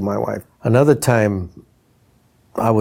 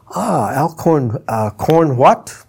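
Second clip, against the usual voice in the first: slow, teasing repeat of "Alcorn", higher, then "corn what?"; mocking comedian; 4 semitones higher, much slower than usual. Red Fox teasing the wife from the stage, slow and mocking. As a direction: drag out "Ah, Alcorn" slowly, then poke fun at "corn".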